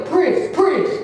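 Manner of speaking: high, loud urgent calling of a name; imitating a husband frantically calling; husband calling out at night. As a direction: call out high like a frantic husband groping in the dark. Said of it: "he would feel around the bed and go".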